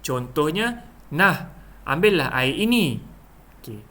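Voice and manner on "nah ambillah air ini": demonstrated "here, take it"; a handing-over exclamation; offering something. Shown as a demonstration. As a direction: offer it to someone. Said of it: "kita memberikan sesuatu kepada seseorang".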